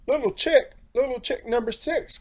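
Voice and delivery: high, carrying call across the farm. A narrator's reading. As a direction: call out for the lost chick. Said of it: "called the far-off mother".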